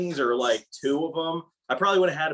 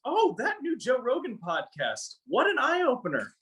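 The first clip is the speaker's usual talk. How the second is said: boomer voice; 8 semitones higher than usual. Retold or imitated. Mocking a boomer podcast fan.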